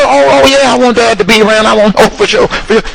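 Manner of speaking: high, breezy fake enthusiasm; mock eager director. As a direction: play the director brushing it off brightly. Director's answer mocked.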